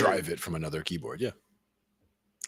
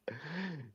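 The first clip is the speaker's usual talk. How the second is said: scary giggle; 11 semitones higher, 11 dB quieter than usual. Acted. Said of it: "The scary giggle".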